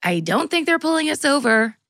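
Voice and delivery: mom voice. Retold or imitated. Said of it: "I have to give people different voices".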